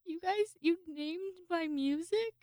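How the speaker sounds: retelling her reaction to the boss's nickname; mock surprise. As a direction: act touched and amazed. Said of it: "And I'm like".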